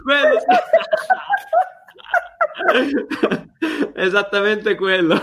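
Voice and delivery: high, laughing praise; laughing delight. Real, not acted. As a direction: cheer through laughter. Delighted at wig answer.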